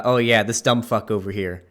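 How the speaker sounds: a lightly put-on tough-guy Boston accent; fake Boston accent. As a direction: imitate a wannabe Boston accent. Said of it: "the kind of fake Boston accent".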